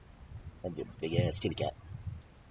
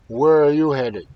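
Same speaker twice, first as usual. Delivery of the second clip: loud, higher call to travellers; 7 semitones higher, 17 dB louder than usual. Acted. Rider calls out to the man and son. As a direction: hail them across the ice.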